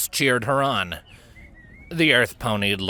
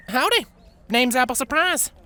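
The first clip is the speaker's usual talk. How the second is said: friendly howdy; 14 semitones higher than usual. A narrator's reading. Earth Pony greets Avia.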